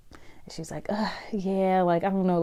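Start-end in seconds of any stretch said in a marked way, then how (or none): 0.9-1.8 1 disappointed whisper. Retold or imitated. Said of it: "the way how her tone was".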